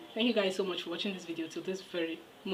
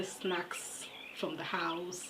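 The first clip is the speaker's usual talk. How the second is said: whisper; 6 dB quieter, much slower than usual. Real, not acted. Whispered aside about soldiers' snacks.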